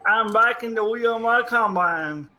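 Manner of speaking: talking through hiccups; words broken by hiccups. Real, not acted. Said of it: "Now I got the hiccups".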